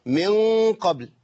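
من hummed at the back, قبل hit with a doubled qaf. Shown as a demonstration. Teacher showing the back-of-tongue mistake, doubled qaf. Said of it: "أتيت بقاف مشددة".

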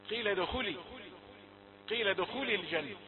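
ادخلي said with a clear final i; wrong feminine ending. Shown as a demonstration. Teacher showing how ادخل sounds like ادخلي. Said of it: "يشعرنا بأن المخاطب أنثى".

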